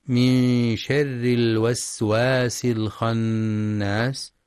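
very slow tajwid chant; Quran recitation. Shown as a demonstration. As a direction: recite it slowly.

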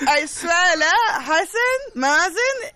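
high, loud mock-indignant outburst; playful outrage. Real, not acted. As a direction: laugh through exaggerated outrage. Playful outburst about friends excluding.

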